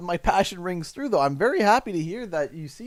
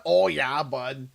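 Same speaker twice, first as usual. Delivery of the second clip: put-on Canadian accent; 3 semitones lower, slower than usual. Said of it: "that's, that's Canadian right there".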